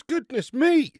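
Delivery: real surprise at how bloated he feels; exclaiming in astonishment; goodness me. Real, not acted. Bloated after two sips.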